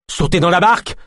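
high, urgent yelp; yelped order. A narrator's reading. De Lune orders everyone into the boat, yelping. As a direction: yelp it as bullets fly. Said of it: "glapit de Lune".

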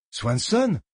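disbelieving question; can't believe the name; incredulous. Acted. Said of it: "incrédule".

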